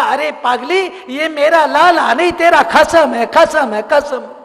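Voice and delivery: laughing teasing. Acted. Yashoda teasing the bride, laughing. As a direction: laugh at her silly mistake.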